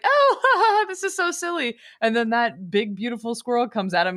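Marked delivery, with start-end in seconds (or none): 0.1-1.8 mocking laugh. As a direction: laugh it off at someone. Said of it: "he's like".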